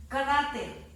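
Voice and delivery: "Cráter" with CRÁ stronger, falling after; "Cráter" with its first syllable pushed out; stressed syllable demo. Shown as a demonstration. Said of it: "acá lleva la fuerza de voz".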